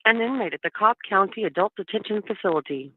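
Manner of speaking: tinny phone line; on a prison phone. Real, not acted. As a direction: sound like a recorded jail call. Recorded prison phone call played.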